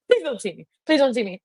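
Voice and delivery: high little panicked plea; mock pleading. Retells trying to hide from a date.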